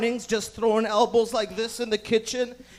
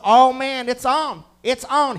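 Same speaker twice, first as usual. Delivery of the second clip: louder, higher roommate impression; mock fight acceptance; 4 semitones higher, 8 dB louder, slower than usual. Roommate after a head flick, mock worked-up voice. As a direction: imitate a roommate getting worked up loudly.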